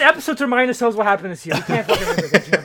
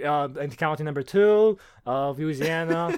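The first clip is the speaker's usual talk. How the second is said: flat newsreader drone; monotone voice; 4 semitones lower, slower than usual. Pretend. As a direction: read it like a dull results anchor. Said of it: "we all talked monotone voices and say".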